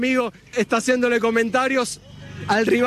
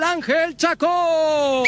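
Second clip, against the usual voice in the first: slow, higher, stretched name call; shouted name; 5 semitones higher, much slower than usual. Acted. Commentator hailing the scorer, slow stretched shout. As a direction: draw the scorer's name out triumphantly.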